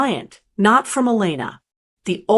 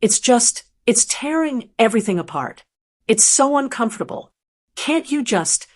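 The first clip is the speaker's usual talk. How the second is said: higher, begging and desperate; 3 semitones higher than usual. Acted. Daughter begs her mother to call her brother, higher and desperate. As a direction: plead to make her smooth it over. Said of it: "her voice getting desperate".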